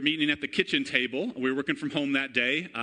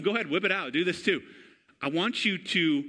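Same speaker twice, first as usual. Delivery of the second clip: usual speaking voice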